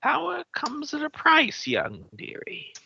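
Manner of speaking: put-on old hag, sly and creaky; a creepy crone teasing a guest; witch voice.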